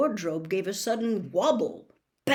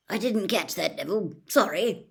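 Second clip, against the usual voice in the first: cheerfully; 3 dB louder than usual. Acted. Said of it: "said Professor Lupin cheerfully".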